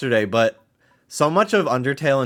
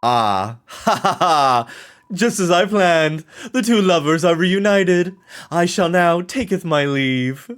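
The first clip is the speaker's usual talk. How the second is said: villain gloat; 5 semitones higher than usual. Acted. Villain line in game.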